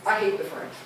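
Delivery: dry sarcasm, tossed off; mock dislike, said sarcastically; sarcastic. Real, not acted. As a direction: say it with a sarcastic edge. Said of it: "I'm being that sarcastically".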